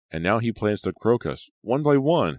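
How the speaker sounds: high-pitched, rising alarm; fearful. A narrator's reading. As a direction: voice climbing with dread. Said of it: "suddenly tight with fear".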